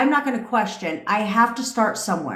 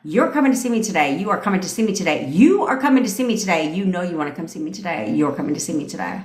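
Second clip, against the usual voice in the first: quick, assured insistence; commanding, with backbone; 3 semitones lower, faster than usual. Shown as a demonstration. Coach modelling a summons to a partner, firm backbone. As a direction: rattle off orders expecting to be obeyed. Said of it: "say this with a little backbone".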